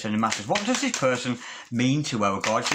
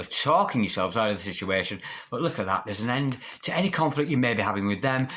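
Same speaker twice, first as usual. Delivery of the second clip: ordinary talk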